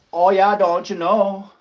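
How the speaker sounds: lightly slowed hint of the northern accent; a touch of don't you know lilt; mock northern accent. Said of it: "You gotta love this accent up here".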